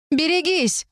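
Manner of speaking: sharp high warning cry; warning shout. A narrator's reading. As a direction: yell it to warn a friend. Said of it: "крикнула Варианна". (резкий высокий предупреждающий крик)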